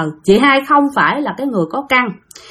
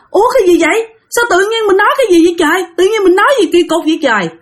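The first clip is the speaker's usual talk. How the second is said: startled bewilderment; 8 semitones higher, faster than usual. A narrator's reading. Woman shocked at what she just said, high fast bewilderment. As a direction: blurt out shocked confusion, quick and high. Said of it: "Chị hai nghĩ rằng á là".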